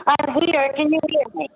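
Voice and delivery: down a well. Real, not acted. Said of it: "She sounds like she's at the bottom of a well".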